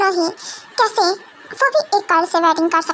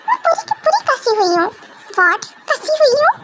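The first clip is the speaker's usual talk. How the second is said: indignant protest; 6 semitones higher than usual. Acted. Girl protesting, then echoing.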